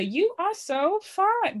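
high, drawn-out imitation of a gushing contestant; playful high-pitched swoon, slowly; mock flirty entrance. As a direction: stretch it out high, imitating her big entrance.

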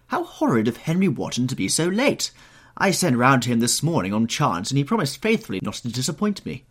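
high, loud society-lady complaint; exclaiming. A narrator's reading. Hostess complaining of a late guest, exclaiming.

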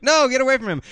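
shouting. Retold or imitated. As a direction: shout to protect the kid. Retold actor's shout.

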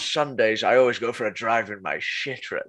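light Connery impression, laughing; Sean Connery impression. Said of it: "joke about Sean Connery".

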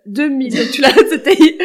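laughing loudly through the words. Real, not acted. Amazed at how long ago it was, laughing loudly. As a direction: let the laugh break into the line.

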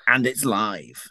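slight football commentator twang; mock kick-off announcement; Martin Tyler. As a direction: announce it like a TV match commentator, lightly. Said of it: "with a slight Martin Tyler twang to it".

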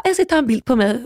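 lätt härmad förtjust nörd; något högre, självbelåtet; nöjd och nördig. Retold or imitated. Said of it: "riktigt nöjd och lite nördig så". (lite nöjt och nördigt härmat)

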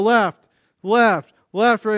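loud, high step count; demonstrated drill call; marching cadence. Shown as a demonstration. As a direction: call the steps in marching rhythm. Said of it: "you start marching again".

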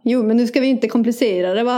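playful Gothenburg dialect; Gothenburg accent. Acted. Brushing off co-host in dialect, Gothenburg accent. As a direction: keep up the Gothenburger act. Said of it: "dialekter i Göteborg".

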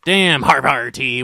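slow pirate growl on Harvard T. Shown as a demonstration. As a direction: snarl it like a pirate captain. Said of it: "I just love saying things like a pirate".

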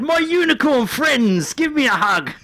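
very high, very slow gushing mock showman; effusive welcome. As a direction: croon it out, arms wide. Comedian greeting unicorn fans.

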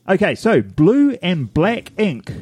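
slow, flat monotone rep; Neil monotone voice. Retold or imitated. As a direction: drone it out like a pedantic sales rep. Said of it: "In a monotone voice".

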